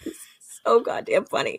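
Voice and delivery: amused whispered aside. Real, not acted. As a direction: breathe it out, still giggling. Laughing aside after joke.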